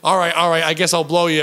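lightly imitated Long Island accent; New Jersey accent. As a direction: keep up her mock New Jersey accent. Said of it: "she's talking like my cousin Vinny".

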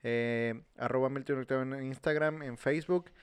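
fast, rushing without a pause; all in one breath. Real, not acted. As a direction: race through it in one breath. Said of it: "hablando lo más rápido posible". (todo de un solo aliento)

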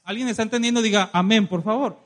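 loud shouted appeal for a response; rousing call. Real, not acted. Preacher demands an amen from listeners, rousing shout. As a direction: push the congregation loudly to answer.

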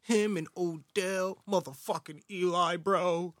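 slow, drawn-out hyped fan voice. Retold or imitated. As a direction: ham up the hopeful Giants fan. Mocking hyped Giants fan.

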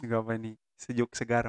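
words out on a drag; exhaling smoke. Real, not acted. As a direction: talk while blowing out smoke. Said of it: "ini juga sambil ngerokok kok".

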